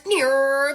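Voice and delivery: drawn-out car swerve noise; rising engine-like whine; imitated car screech. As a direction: imitate a car whipping round a corner. Imitates car turning the corner.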